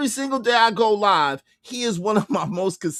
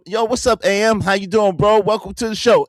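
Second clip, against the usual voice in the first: replayed greeting; 5 dB louder than usual. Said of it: "After I defended him".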